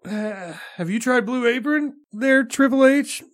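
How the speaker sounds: high, rising pitchman voice; Vince McMahon impression. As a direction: pitch the sponsor to Triple H. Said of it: "Vince McMahon doing a podcast".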